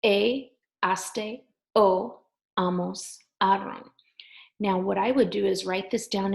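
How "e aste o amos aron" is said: E, aste, o, amos, aron called out a bit louder; E, aste, o, amos, aron louder, o and amos slower. Shown as a demonstration. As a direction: stress the accented é and ó endings a little louder. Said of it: "you wanna say it a little louder".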